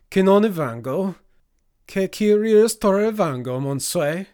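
loud, high-pitched outraged challenge; heated foreign-tongue demand; confrontational stranger. Acted. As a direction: throw it back, loudly incredulous.

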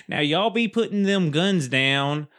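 a hint of a Southern sheriff laying down the law; Southern accent. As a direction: put on a folksy Southern accent, half joking. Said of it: "Or if they'd had a Southern accent".

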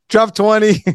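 mock drill sergeant. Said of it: "You, you sound like a drill sergeant right now".

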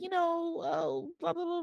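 high, mocking British blah-blah; British accent. Host imitating the dismissive boyfriend, in a British accent. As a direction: put on a high-pitched British voice. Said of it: "I'm gonna do a British accent".

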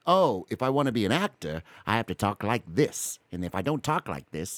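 lightly imitated old Hollywood accent; a hint of moving-picture actor accent; old-time actor voice. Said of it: "actors watching the moving pictures would say".

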